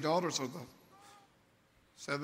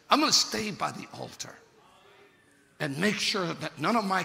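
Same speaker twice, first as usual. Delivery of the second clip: 1 emphatic louder repeat; 3 dB louder than usual. Shown as a demonstration. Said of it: "Read it for yourself".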